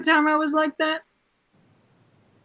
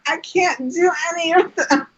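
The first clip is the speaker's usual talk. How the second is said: higher, whiny lament; mock sad; 4 semitones higher than usual. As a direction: whine it like a disappointed fan. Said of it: "I was so sad".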